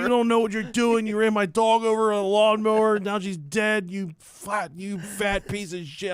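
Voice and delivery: hammed-up dream rant at the dad; retold yelling. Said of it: "I'm yelling at her".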